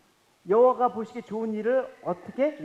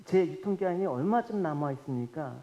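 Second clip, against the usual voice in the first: quiet prayer; 4 semitones lower, 4 dB quieter than usual. Retold or imitated. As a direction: pray it under your breath. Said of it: "제가 곰곰이 물어봤습니다".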